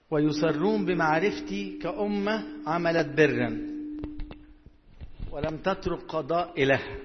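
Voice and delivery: slow, formal verse recitation; measured declamation of scripture; scripture reading. Real, not acted. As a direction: read it out in stretched, deliberate phrases.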